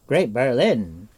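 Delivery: stunned, let the oath burst out slowly; exclaiming in amazement. Acted. Bard sees the magic web appear, amazed exclamation. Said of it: "he exclaimed".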